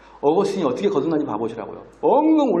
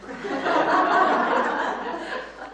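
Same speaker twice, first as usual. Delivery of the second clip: high unvoiced burst of laughter; real wheezing laugh. Real, not acted. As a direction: laugh out hard at the punchline. Laughing at own joke.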